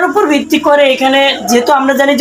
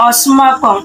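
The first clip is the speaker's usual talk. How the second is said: slow demonstration; much slower than usual. Shown as a demonstration. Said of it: "আমরা যদি এটা সংস্কৃত উচ্চারণটা দেখি".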